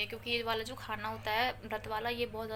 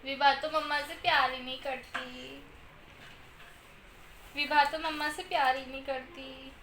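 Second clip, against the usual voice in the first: mock sulk; 3 semitones higher than usual. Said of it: "झूठी की रोने की एक्टिंग".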